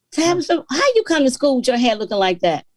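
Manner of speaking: retold, mock-stern teacher voice; scolding teacher. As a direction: mimic the teacher looking down on her hair. Teacher scolding five-year-old Tabitha.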